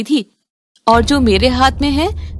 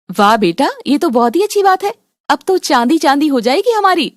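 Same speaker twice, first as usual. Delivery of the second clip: excited delight; 2 semitones higher than usual. Acted. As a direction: cheer the good news. Mother hears good news from son.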